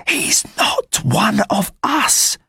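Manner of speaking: put-on high-pitched cheeky boy's voice; street boy Gavroche. Gavroche warning the rebels about the spy, high boyish voice. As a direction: talk up high like a scrappy street kid.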